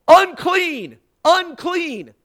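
loud, high-pitched cry; warning shout. Acted. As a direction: call it out to the whole crowd. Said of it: "they would have to shout".

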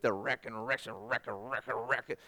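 low cartoon grumbling under the breath; Yosemite Sam. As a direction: sputter a muttered, repetitive cartoon fume. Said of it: "It's that Yosemite Sam moment".

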